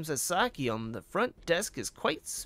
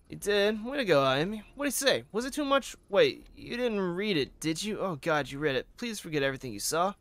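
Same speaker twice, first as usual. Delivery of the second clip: higher, excited questions sinking into embarrassment; eager, flustered front-desk officer; 5 semitones higher than usual. Acted. Asking Ito about her love letter, eager then flustered. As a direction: play a smitten colleague panicking about her letter.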